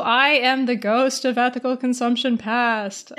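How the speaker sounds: lightly spooky ghost voice. Pretend. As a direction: intone it like a playful haunting. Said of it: "I'll stop doing ghost voices".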